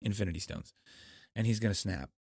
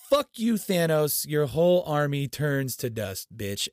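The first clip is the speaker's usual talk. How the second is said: slow, loud, higher triumphant taunt; gleeful taunt; 4 semitones higher, 5 dB louder than usual. Real, not acted. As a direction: savor it, spitting out the insult. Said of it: "cheering the defeat".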